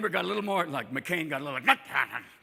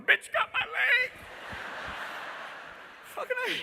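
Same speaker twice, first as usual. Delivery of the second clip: bitter wolf; 4 dB quieter than usual. Acted. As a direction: moan it like a maimed wolf. Three-legged wolf complaining.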